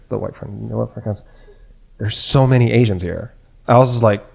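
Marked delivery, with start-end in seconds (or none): 2.0-3.3 imitating a matter-of-fact complaint; full normal voice. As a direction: say it openly, no hushing. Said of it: "like, full voice, normal voice".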